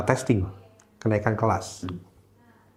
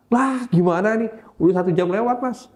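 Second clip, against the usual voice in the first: teacher alarmed the hour is gone; exasperated teacher; 10 semitones higher than usual. Retold or imitated. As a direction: fuss like a worried teacher.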